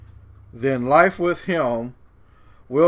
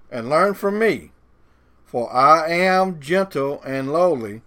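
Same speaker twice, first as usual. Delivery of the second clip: scripture reading. A narrator's reading. Reads scripture aloud to listeners.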